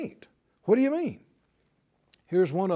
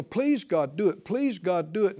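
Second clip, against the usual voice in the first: mock begging. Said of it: "to beg".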